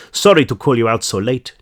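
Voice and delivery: lightly attempted Swedish accent. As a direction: try a slight Swedish accent. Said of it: "supposed to be like a Swedish accent".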